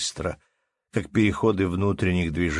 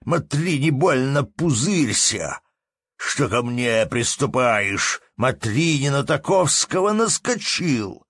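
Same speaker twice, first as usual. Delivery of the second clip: higher, louder hot warning; heated innkeeper; 7 semitones higher, 4 dB louder, slower than usual. A narrator's reading. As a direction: warn him off with heat. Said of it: "возразил не менее запальчиво хозяин".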